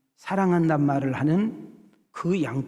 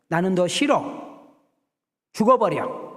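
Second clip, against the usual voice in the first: a touch louder, mock curse at the onion; mock cursing; 3 semitones higher, 3 dB louder than usual. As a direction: spit out the curse, half-acted. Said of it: "이렇게 저주를 퍼붓고 막 욕을 하고". (양파에게 저주를 퍼붓듯)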